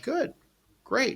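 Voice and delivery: high, bright burst of delight; excited. Retold or imitated. Caterer to client, thrilled by the brunch request. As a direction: jump at the offer, thrilled. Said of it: "And I'm like".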